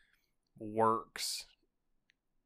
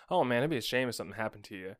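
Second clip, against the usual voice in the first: smiling menacing loan shark; faster than usual. Shown as a demonstration. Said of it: "on the fly change the inflection".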